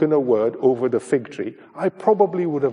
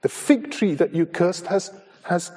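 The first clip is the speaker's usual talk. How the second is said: raised, amazed cry of an astonished disciple; surprised; 6 semitones higher than usual. Acted. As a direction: call out in wonder, pitched up. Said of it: "he is quite surprised".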